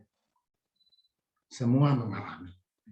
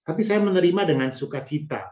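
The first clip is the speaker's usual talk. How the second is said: reading a message aloud. Shown as a demonstration. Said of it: "Ini saya bacakan ya".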